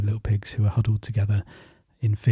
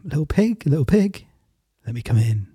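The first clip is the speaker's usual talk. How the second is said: wolf's raised sing-song call; 3 semitones higher than usual. Acted. Wolf calls at door.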